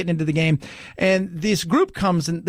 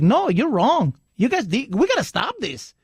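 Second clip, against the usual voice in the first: lightly put-on Mexican accent, higher pitch; imitated Mexican accent; 4 semitones higher than usual. Guy from Mexico contradicts the people at his table, imitated accent. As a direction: imitate a Mexican man's accent while objecting. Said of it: "he did it in an accent".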